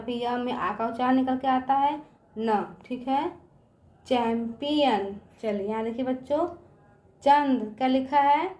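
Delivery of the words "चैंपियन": drawn out syllable by syllable; slow classroom sounding-out. Shown as a demonstration. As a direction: stretch each sound for the children. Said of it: "teacher sounds out word".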